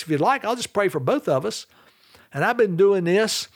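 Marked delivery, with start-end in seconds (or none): 0.0-1.7 higher-pitched lilting offer, "like" lifted, falling away at the end; gentle inflection. Shown as a demonstration. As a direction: make it an easy, inviting offer with a lift on "like". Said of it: "with a little inflection in my voice".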